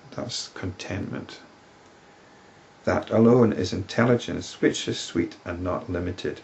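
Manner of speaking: put-on measured, solemn reading of an old text; scripture reading. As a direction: read it like sacred verse. Reads scripture verses aloud.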